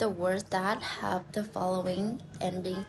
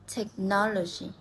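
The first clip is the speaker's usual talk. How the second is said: "Technology" with the beat on NOL; stress on third-last syllable. Shown as a demonstration. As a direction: say "Technology" as tech-NOL-ogy. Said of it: "we stress in the third last syllable".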